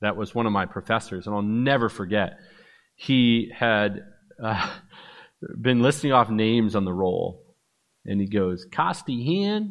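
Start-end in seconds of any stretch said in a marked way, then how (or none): 8.7-9.7 put-on, high-pitched Texas twang. Retelling a professor calling names on the roll, with a Texas twang. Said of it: "like with a texas twang".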